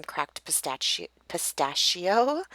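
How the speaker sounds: real slip on the word, corrected with a drawn-out second try; tongue-tied. Real, not acted. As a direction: stumble on pistachio, then restart it slowly. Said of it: "I'm a little tongue-tied today".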